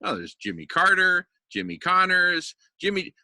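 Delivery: high, fast mock cheerful recognition; mock Spaniards. Recalling Spain, mimics locals eagerly naming him Jimmy. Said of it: "everyone had heard of Jimmy".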